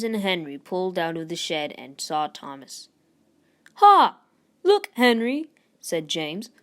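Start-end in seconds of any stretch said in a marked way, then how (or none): 3.7-5.5 high, loud jeering laugh; loud mocking "Ha!" to a friend. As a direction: laugh at him, teasing. James mocks Thomas.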